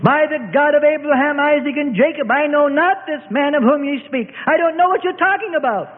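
high, desperate denial. A narrator's reading. Frightened Peter denying his master, desperate. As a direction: cry out the oath in a high, pleading pitch. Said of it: "he cried out desperately".

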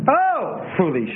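stilted, halting Bible reading; unnatural reading. Shown as a demonstration. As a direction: put the emphasis on all the wrong words. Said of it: "you can also read this unnatural".

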